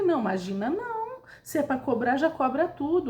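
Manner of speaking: exasperated retort, moderately heated; retold irritation. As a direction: re-enact insisting out of irritation. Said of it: "porque eu tava irritada".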